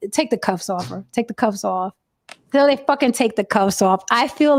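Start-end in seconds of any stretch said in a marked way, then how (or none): 0.1-1.9 softly voiced lieutenant order; calm order. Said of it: "he was like".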